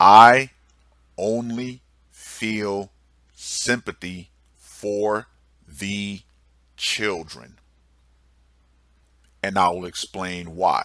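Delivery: very slow, deliberate, word-by-word delivery. A speaker addressing the trolls out there: very slow. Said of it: "I'm going to say this very slowly".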